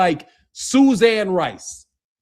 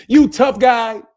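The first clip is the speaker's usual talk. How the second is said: slow, louder sarcastic jab; mocking tough guy; 3 dB louder, slower than usual. Taunting the would-be hitman, slow mocking jab. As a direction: drag it out to mock him.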